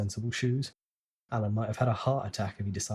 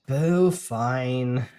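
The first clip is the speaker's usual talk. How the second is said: monotone; 5 dB louder than usual. A narrator's reading. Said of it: "Jenna monotones".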